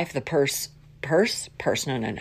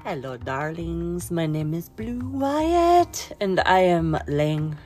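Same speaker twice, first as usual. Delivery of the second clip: campy drag queen; slower than usual. Acted. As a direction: drawl it out like a diva. Slow sultry greeting.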